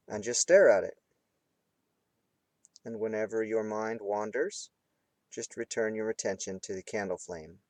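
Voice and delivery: measured meditation teacher's voice; guided meditation. Real, not acted. Teacher instructing students to gaze at the candle flame, guided meditation. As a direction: guide them gently, pausing between phrases.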